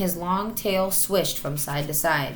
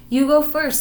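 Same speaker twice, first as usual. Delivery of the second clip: urging; 9 semitones higher, 7 dB louder than usual. Acted. Matilda urging Marmaduke on.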